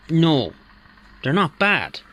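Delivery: ordinary talk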